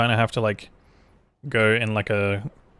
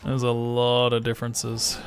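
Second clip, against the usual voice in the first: put-on Austrian accent; slower than usual. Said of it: "Australian slash Austrian accent".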